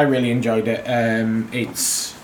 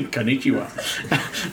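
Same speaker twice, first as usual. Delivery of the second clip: mock Japanese accent, drawn out; jokey attempt at a Japanese accent; 4 dB quieter, much slower than usual. Shown as a demonstration. Co-host showing off to a protesting friend, mock Japanese accent. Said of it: "I can do a, be-, a better Japanese accent".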